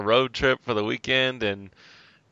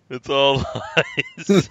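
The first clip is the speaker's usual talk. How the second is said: mournful sad clown whine. Pretend. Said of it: "I'm, I'm the sad clown".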